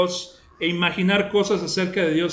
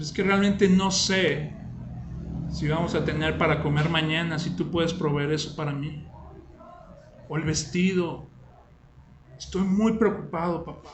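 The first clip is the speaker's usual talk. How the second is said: put-on soft, low child's voice, quieter; a fretful boy doubting his father can provide; worried child; 3 semitones lower, 6 dB quieter than usual. Son telling his father he fears there won't be food, soft and worried.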